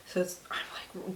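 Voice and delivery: gaspy, short of breath; breathless with a blocked nose. Real, not acted. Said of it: "gaspy because I can't breathe very well".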